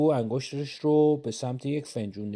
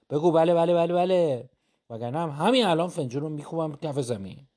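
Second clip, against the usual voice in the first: pushy demand; 2 semitones higher than usual. Acted. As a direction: push him into agreeing. Threatening to smash the cup.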